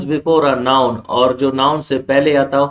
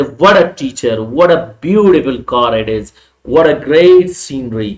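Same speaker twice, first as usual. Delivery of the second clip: exclamatory wonder; 5 dB louder, much slower than usual. Shown as a demonstration. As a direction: build amazement to the last one. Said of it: "intonation में वो हैरानगी भी जाहिर करना". (बढ़ती हैरानी के साथ)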